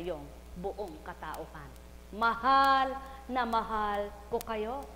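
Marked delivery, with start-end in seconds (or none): 2.1-4.8 slow tender declaration. Real, not acted. Preacher to congregation.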